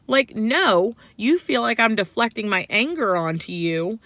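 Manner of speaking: heated retold yell at husband. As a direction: argue it out loud and high. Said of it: "Wait, wait, you're yelling".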